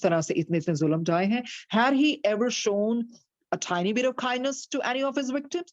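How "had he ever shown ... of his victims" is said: slow, deliberate storybook reading; story narration. A narrator's reading. Teacher reads the story slowly to her class. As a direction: read it out slowly to the listeners.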